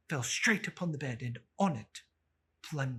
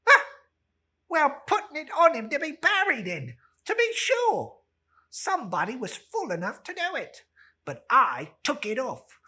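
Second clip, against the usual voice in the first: much higher, loud coarse crone; old charwoman cackling; 6 semitones higher, 9 dB louder, faster than usual. Acted. Old woman mocks the burial shirt, high and loud. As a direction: shriek it out with glee.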